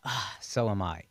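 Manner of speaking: mocking wife. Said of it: "she goes".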